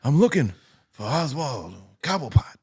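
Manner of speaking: halting, clipped Walken cadence; Christopher Walken impression. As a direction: do a lightly voiced Christopher Walken. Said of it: "Was that Christopher Walken".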